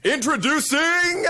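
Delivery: announcer call. Shown as a demonstration. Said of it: "you say what I tell you".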